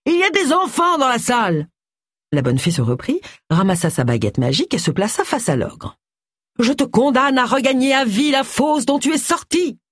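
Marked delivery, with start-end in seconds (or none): 0.1-1.7 high-pitched indignant call; high, scandalised reproach; outraged protest. A narrator's reading. 6.6-9.8 high, declaimed fairy curse; high theatrical incantation; stage good fairy. A narrator's reading.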